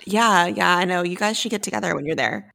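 sleepy, husky just-woke-up voice; morning voice. Real, not acted. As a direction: talk like you just rolled out of bed. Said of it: "your voice is so, like, morning voice".

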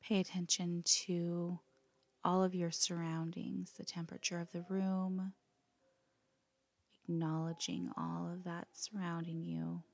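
calm, unhurried yoga nidra guidance with long pauses; guided meditation. Acted. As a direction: let each phrase settle before gently giving the next.

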